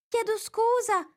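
high, small, slow apology; mortified. A narrator's reading. Alice mortified, apologizing to the mouse. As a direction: apologize in embarrassment. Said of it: "rispose Alice mortificata".

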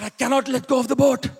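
put-on voice of a frightened dad refusing; stubborn dad. Dad refusing his son's plea from the water, acted stubborn voice. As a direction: imitate dad digging in, word by word.

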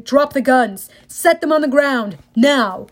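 megaphone. Acted. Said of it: "voice on a megaphone said".

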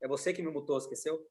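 muffled, distant mic sound; faint voice through a faulty mic; bad microphone. Real, not acted. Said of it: "tô com um problema com o microfone".

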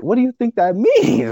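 high, slow, laughing disbelief; incredulous laughing question. Retold or imitated. Asking his girlfriend in disbelief, laughing. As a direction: laugh through it like she can't be serious.

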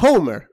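"Homer" with an audible breathy H; pronounced H. Shown as a demonstration. Host mimicking Spain's dub, H pronounced. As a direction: sound the H in "Homer" like a Spanish j. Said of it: "o sea que pronuncian la H".

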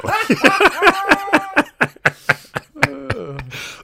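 long, high, loud laughing fit; real helpless high laughter; uncontrolled laughter. Real, not acted. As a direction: crack up and keep going. Cracking up at own read.

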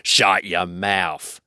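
slow, rough choked retort; troll spluttering out an order; choking troll. A narrator's reading. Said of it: "William choked".

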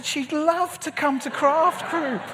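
very high, slow gushing; volunteer someone far too eagerly; mock enthusiasm. Volunteers wife, retold for laughs.

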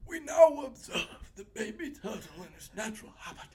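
hushed, whispered wildlife narration; nature documentary narrator. Pretend. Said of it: "What's that guy's name? ... David Attenborough".

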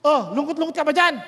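mock pity thrown at the sad officials; mocking taunt. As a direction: needle them as a bitter Joseph would. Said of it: "kung ako si Joseph at asar ako sa buhay".

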